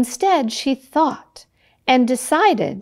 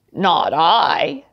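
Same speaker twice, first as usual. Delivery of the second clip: pig refusing; 4 semitones lower than usual. Acted. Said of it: "said the pig".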